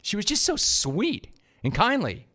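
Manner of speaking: high, soft syrupy delivery; mock sweetness. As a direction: gush softly with exaggerated sweetness. Mimics the sweet caller's manner.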